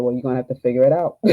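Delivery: the doctor's blunt line, slightly amused; quoting through a laugh. Retold or imitated. Telling the coach what the doctor said, with a light laugh. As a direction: repeat his words with a chuckle. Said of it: "He said".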